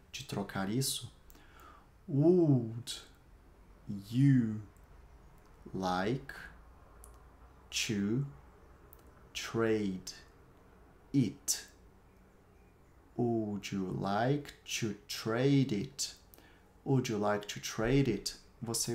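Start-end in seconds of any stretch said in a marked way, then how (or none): 2.1-11.6 slow, one word at a time with long pauses. Shown as a demonstration. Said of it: "Repete aí". 13.2-16.1 very slow, stretched-out question for learners; slow model sentence. Shown as a demonstration. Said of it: "Eu vou repetir cada uma das frases".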